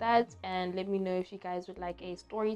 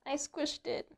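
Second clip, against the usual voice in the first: shaken; 8 semitones higher, 8 dB quieter than usual. Real, not acted. Calming after spider.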